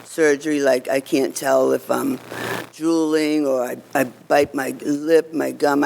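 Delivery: slightly slurred speech from a numb mouth; speaking with a numb, tongue-tied mouth. Real, not acted. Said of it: "This side of my mouth is numb".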